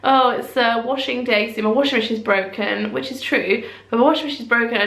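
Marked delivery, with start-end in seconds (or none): 0.0-2.9 a mild reenactment of a panicked apology to another mum; flustered apology. Retold or imitated. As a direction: gabble out an embarrassed excuse. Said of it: "meltdown mode where I apologised".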